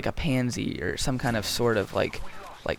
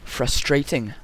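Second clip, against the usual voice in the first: British accent; 2 semitones higher, slower than usual. Shown as a demonstration. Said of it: "if you say it in a British accent".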